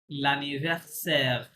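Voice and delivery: careful, stretched L'anniversaire ending in "sair"; French pronunciation demo. Shown as a demonstration. Teacher correcting a student's reading, careful French L'anniversaire ending in "sair". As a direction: say L'anniversaire slowly, drawn out with a French r at the end. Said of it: "ঠিক করে করেন একটু".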